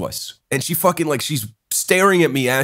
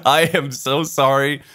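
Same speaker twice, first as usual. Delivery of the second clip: slow, retold heartfelt apology; profuse apology. Going up to the Estonian guy to apologize, profusely sorry. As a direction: apologize slowly, laying it on for a retelling. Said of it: "to apologize profusely".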